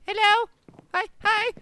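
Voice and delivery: high, loud greeting; calling out. Real, not acted. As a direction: call hello across the map. Greets a far player.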